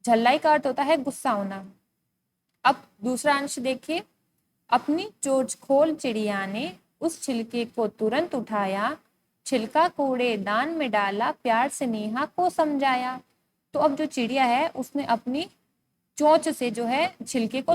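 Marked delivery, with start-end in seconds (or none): 4.7-13.2 put-on slow, measured verse reading for children; poem recitation. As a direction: recite line by line with pauses between. Reads the poem aloud. (कविता पाठ)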